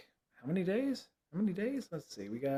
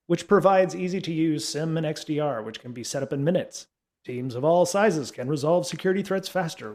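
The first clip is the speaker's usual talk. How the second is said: announcer voice. Acted. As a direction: sell it like a radio ad spot. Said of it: "let me get my announcer voice on".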